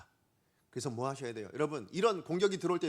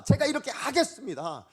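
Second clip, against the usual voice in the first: high, loud vow; firm resolve; 7 semitones higher, 5 dB louder than usual. Acted. Preacher voices Peter's vow to Jesus, firm resolve. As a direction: pledge it with full conviction. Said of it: "확고한 신념을 가지고 자기 마음의 결단을".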